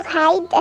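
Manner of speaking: Hide said the English way, a long "haïde"; proud English accent on Hide. Shown as a demonstration. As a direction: pronounce Hide like an English speaker. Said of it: "l'accent anglais magnifique".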